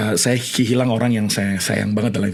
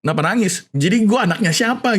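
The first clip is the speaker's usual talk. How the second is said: retelling own question; 9 semitones higher than usual. Retold or imitated. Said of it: "akhirnya berdua bilang gini".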